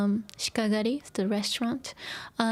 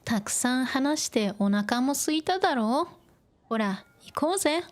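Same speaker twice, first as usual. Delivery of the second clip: casual male game line; 2 semitones higher than usual. Shown as a demonstration. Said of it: "He talks like this".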